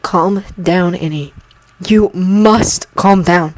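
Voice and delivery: slow, calm soothing voice; Obi-Wan calming a sobbing Anakin, slow and soothing. Acted. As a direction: settle the boy gently.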